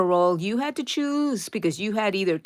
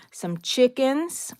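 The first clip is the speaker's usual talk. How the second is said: Some chickens slow and higher, amused; slow playful higher repeat of chickens; fond echo; 6 semitones higher, much slower than usual. Shown as a demonstration. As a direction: linger on chickens with a lift.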